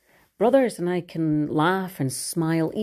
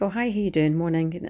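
lightly put-on professional cheeriness; breezy, courteous greeting, rising then settling; polite phone greeting. Daughter greeting hotel callers, professional and polite. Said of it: "switches straight into professional and polite".

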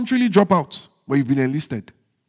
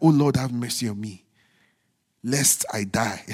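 much softer mock dying plea, hammed-up; mock dramatic plea; 8 semitones lower, 6 dB quieter than usual. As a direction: ham up a starving faster begging for mercy. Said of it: "you're like".

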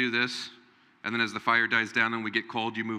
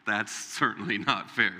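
slow wry drawl; 4 semitones lower than usual. Shown as a demonstration. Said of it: "let me tell you".

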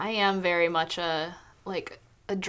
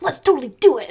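high, loud, all-in yes; eager agreement; 7 semitones higher, 9 dB louder, faster than usual. Retold or imitated. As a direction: jump at the idea.

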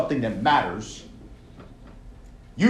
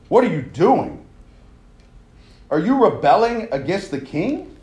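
accusing taunt; 4 semitones higher, 4 dB louder than usual. Acted. Voicing the opponents' accusation.

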